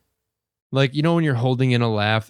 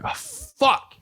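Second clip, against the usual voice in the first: whispered oh fuck; 13 semitones higher than usual. Retold or imitated. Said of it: "I'm like".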